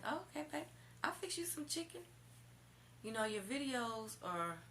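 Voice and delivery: high mocking voice; high, sweet mock of his words; imitating him. Woman mimics boyfriend praising her videos, high mock. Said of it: "he starts talking about my videos".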